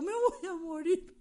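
slow, high despairing cry; hammed-up fear of dying; dramatic dread. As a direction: say it slowly like it's the end. Retelling smelling smoke, fearing death.

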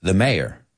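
"mayor" in two syllables, MAY-er; American pronunciation. Shown as a demonstration. Teacher answering how to pronounce it, "mayor" as MAY-er. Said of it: "how would I pronounce that word?".

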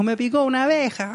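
imitating crying child. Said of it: "Ah, y lloraba, así dijo".

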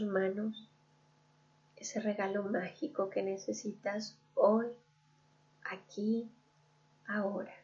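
calm guided-visualization voice with long pauses; guided meditation. Real, not acted. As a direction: lead the listener gently inward, leaving room to breathe. (meditación guiada, pausada y serena)

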